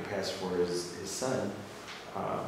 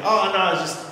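faking innocence; 8 semitones higher, 5 dB louder than usual. Retold or imitated. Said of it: "He's like".

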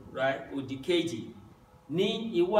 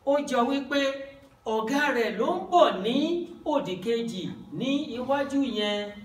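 higher, quick quoted voice of the lady; lady's line, voiced; 7 semitones higher, 3 dB louder, faster than usual. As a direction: play the other lady speaking. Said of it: "The other lady said".

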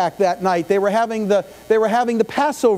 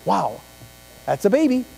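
mock polite praise. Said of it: "What you need to just do is go up and say".

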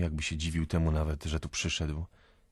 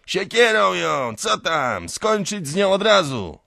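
high, loud egging-on yell; shouting; 13 semitones higher, 10 dB louder than usual. A narrator's reading. Someone in the crowd urging the kill, shouting. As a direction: holler urgently from among the crowd. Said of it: "krzyczy ktoś z tłumu".

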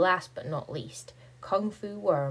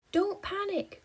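heroic cry. Acted. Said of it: "cry the Don't Panic Gang".

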